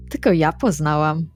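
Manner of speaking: ordinary talk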